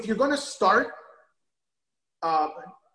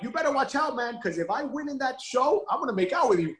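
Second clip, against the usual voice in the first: teasing laugh; 6 semitones higher than usual. Retold or imitated. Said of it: "I'm like".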